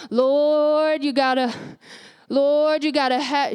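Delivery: a hint of grandma calling "Lord"; praying like grandma. Imitating her grandma's pleading prayer in a mild voice. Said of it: "I'm praying like my grandma".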